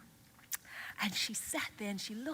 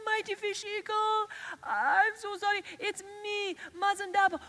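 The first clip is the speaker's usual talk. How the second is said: much higher, fast, tearful flattering plea; pleading girl; 5 semitones higher, 4 dB louder than usual. Acted. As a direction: beg and flatter the eagle, near tears. Mazindaba begs Fish Eagle.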